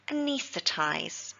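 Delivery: anaesthetize slow, stress on nees; slow teaching model of anaesthetize; stress on second syllable. Shown as a demonstration. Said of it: "with the stress again on the second syllable".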